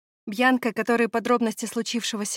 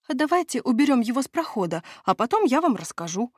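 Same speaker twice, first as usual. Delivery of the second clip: wheedling; 4 semitones higher than usual. Acted. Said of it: "начал торговаться и юлить Лоутрок".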